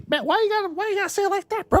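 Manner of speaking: squeaky mock-offended whine; high whiny voice.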